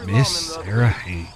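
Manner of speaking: low, slow, savoring the name; smitten musing. Acted. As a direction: say it softly to yourself, lovestruck. Smitten man musing on her name.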